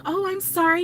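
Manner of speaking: sweet apology. Retold or imitated. Nephew to crying little girl, imitated sweet apology. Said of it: "he was so sweet to her".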